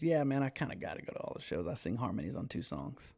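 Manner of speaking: quiet, matter-of-fact confession; understated, straight-faced delivery; dead serious. Retold or imitated. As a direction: say it in complete earnest, softly. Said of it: "looked at me dead in my eye".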